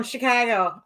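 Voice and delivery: Chicago accent. Shown as a demonstration. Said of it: "I love how you say Chicago".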